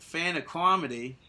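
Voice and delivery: put-on "comedy" said "kwahmedy" in a Boston accent; retry the Boston accent on "fan of comedy". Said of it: "That's a Boston".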